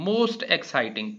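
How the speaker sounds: "most exciting" said slowly and clearly; slow stressed answer; slow emphasis. Shown as a demonstration. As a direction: draw out "most exciting" for the class. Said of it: "इस्तेमाल करेंगे most exciting".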